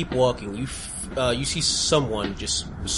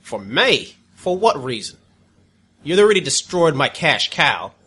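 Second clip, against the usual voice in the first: resentful prisoner, louder and scornful; bitter captive villain; 2 semitones higher, 7 dB louder than usual. Acted. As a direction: sneer at the heroes you hate. NPC captive answering the party.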